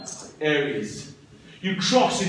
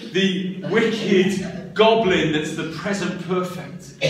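ordinary talk, nothing marked

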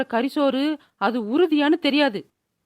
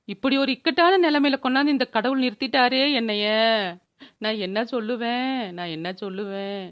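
tearful lament; 3 semitones lower than usual. Acted. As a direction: lament to the heavens, fading away. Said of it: "திடீர்னு அழுவுற". (சோகமாகத் தணியும் புலம்பல்)

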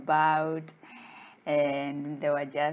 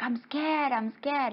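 high, timid repeat; pitched-up mock fright; scared little fish; 8 semitones higher than usual. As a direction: play a small creature hiding in fear. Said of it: "he just hides ... he's like".

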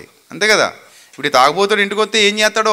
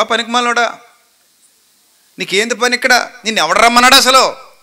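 angry scolding; 3 semitones higher, 3 dB louder than usual. Shown as a demonstration. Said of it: "ఇలాగే అడగాలి".

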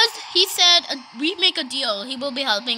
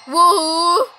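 cheer; 6 dB louder than usual. Real, not acted. Cheering again.

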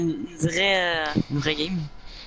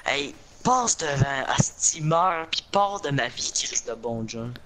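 raging gamer; 6 semitones lower than usual. Real, not acted. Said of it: "qu'est-ce que t'as contre moi?".

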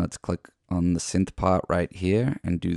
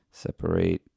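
whispered separate. Shown as a demonstration. Repeats word while working.

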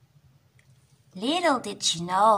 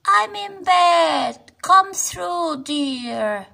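gruff voice; 8 semitones higher, 5 dB louder, much slower than usual. Acted. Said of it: "said a rather gruff voice".

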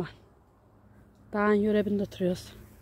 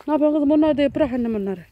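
scolding call; 5 semitones higher, 6 dB louder, faster than usual. Real, not acted. Mother stopping daughter picking plants.

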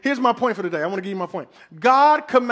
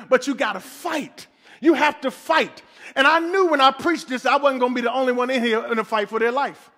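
fiery preaching; 2 semitones higher than usual. Real, not acted. Pastor urging the church to fight, fiery and insistent. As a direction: drive it home to the congregation.

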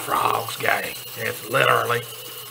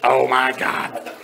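loud startled gasp of words; shocked exclamation; 3 dB louder than usual. Acted. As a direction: blurt it out in shock. Shocked discovery in bathroom.

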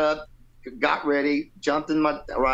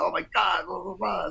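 higher-pitched imitation of amazement; light mock excitement; retold freak-out; 8 semitones higher than usual. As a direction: mildly mimic someone freaking out. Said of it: "he just freaked, freaked out".

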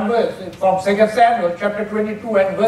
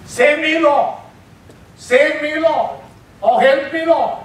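a hint of a pleading cry, pitched higher; pleading prayer; 5 semitones higher, slower than usual. Shown as a demonstration. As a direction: cry out to God for rescue, lightly voiced. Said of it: "That is prayer or petition".

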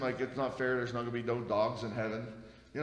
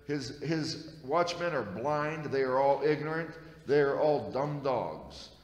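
emphatic scripture reading; 4 dB louder, slower than usual. Acted.

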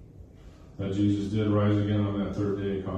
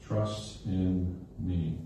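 slow, soft and gentle, drawing each word out; tender plea; 4 dB quieter, much slower than usual. Retold or imitated. Jesus gently urging Thomas to trust, slow and soft. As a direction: reassure like a shepherd calming his flock. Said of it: "Jesus is saying".

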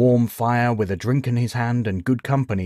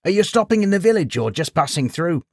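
put-on high old villager asking; friendly old codger greeting; old man voice; 9 semitones higher, 4 dB louder than usual. A narrator's reading. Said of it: "the man went on".

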